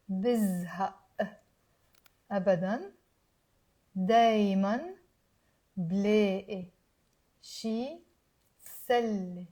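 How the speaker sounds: word by word, shorter pauses. Shown as a demonstration. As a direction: pick up the pace slightly. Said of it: "Let me say it a little faster".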